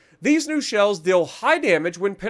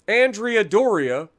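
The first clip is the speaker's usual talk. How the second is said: mock Italian accent; slower than usual. Shown as a demonstration. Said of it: "which is probably Andrea Doria".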